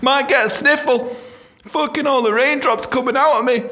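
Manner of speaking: mock sick voice.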